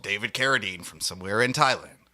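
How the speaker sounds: booming host intro voice; announcer. Acted. Host opening his own show with a big announcer voice. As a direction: hype up the show like a radio announcer. Over-the-top podcast intro.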